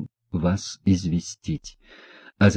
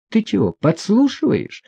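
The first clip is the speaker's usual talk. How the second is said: much higher, caught-out snap; sharp cry; 12 semitones higher than usual. A narrator's reading. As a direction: cut him off, suddenly alarmed. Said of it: "крикнула она, спохватившись". (крикнула, спохватившись)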